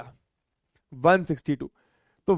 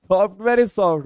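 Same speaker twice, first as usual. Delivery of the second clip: mock dumb answer; much slower than usual. Mocking a silly student answer.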